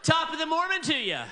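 lightly voiced Irish lilt on the joke greeting, high and laughing; a hint of a jolly Irishman; mock Irish greeting. Greeting the young Mormons, in a light mock Irish lilt. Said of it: "I yell".

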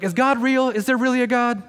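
high, exasperated mock outrage; mock doubting whine. Diner mocking his own outrage at a wrong order. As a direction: play the petty diner losing faith.

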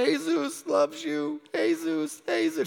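slow, high, tender "Jesus loves you"; tender comfort. Retold or imitated. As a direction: comfort him gently while holding him. Hugging the crying stranger.

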